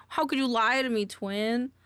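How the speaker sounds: a hint of the woman's wounded voice; imitating her voice. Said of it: "I wish I had the voice control to do this".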